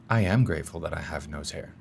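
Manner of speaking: sincere I am. Shown as a demonstration. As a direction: feel it as you say I am grateful. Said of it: "we'll try it the second way".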